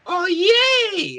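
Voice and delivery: high, excited little creature; lion cub voice. Acted. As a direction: squeal it like a happy cub. Bims the pet cheers.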